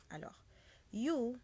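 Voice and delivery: normal talking voice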